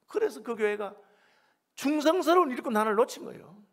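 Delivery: high, forceful pulpit pleading; impassioned preaching. Real, not acted. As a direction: preach it with urgent indignation.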